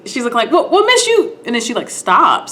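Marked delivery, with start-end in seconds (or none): 0.5-1.4 very high-pitched mock call for attention; high, insistent retold call. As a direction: imitate a customer trying to flag someone down. Retold calling out to saleswoman.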